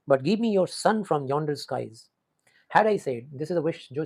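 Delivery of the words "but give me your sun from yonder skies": each word drawn out, very slow; slow poem recitation. Shown as a demonstration. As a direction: read the verse slowly. Teacher reciting the poem line. (धीमी कविता पाठ शैली)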